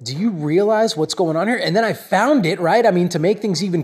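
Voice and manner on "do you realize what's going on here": self check. Retold or imitated. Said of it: "I had to say to myself".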